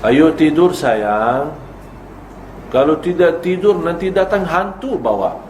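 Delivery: sweet-voiced parent scaring a child to sleep; mock parent's threat. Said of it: "Ini ancaman". (ibu menakut-nakuti anak supaya tidur, manis lalu mengancam)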